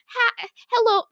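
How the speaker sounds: high, faltering try at Yorkshire; failed Yorkshire accent. Retold or imitated. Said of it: "No, I can't do it now".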